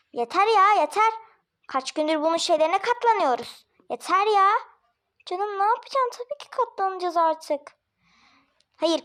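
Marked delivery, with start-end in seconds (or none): 0.1-4.5 fed up. Acted. Husband tells his wife he is fed up, in an exasperated voice. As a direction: snap that enough is enough.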